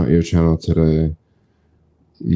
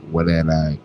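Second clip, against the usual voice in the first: words through a yawn. Real, not acted. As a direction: talk mid-yawn. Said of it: "Why am I yawning like crazy?".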